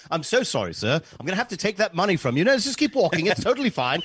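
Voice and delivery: put-on British accent. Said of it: "he had a British voice".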